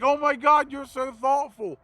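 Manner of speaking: lightly voiced grateful woman; gushing customer. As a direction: imitate her touched delight. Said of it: "She's like".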